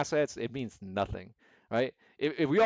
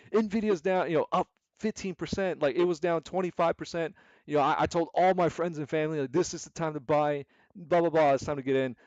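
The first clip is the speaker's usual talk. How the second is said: higher-pitched, excited retelling of hyped posts; hammed-up hype voice; mock emotional investor; 4 semitones higher than usual. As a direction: imitate an overeager retail trader. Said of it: "I see them so emotional".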